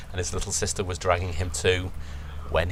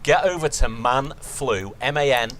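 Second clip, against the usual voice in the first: hammy infomercial voice; mock advert read; 4 semitones higher than usual. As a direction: sell it like a cheesy ad.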